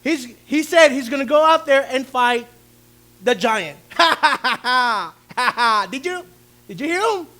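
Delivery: king mocking David's boast, laughing; mocking disbelief. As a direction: scoff through laughter. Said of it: "response of the king".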